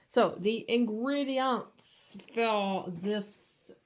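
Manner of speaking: a light put-on French accent, drawn out; mock French accent. Nail artist joking to viewers, mock French accent. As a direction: slip into a playful French accent. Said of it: "I don't know why I'm going French".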